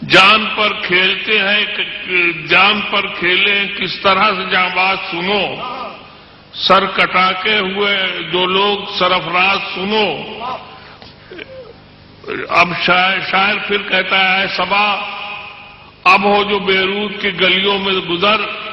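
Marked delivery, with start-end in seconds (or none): 0.1-10.1 measured, declamatory poetry recital; stately nazm recitation. Acted. Recites poem stanza. 14.4-18.7 measured, declamatory poetry recital; stately nazm recitation. Acted. Recites poem stanza.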